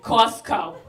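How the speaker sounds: loud brusque "Costco", then easing off; mock auntie grumbling; aunt with attitude. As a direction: play the rude aunt, lightly. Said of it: "what's with the attitude".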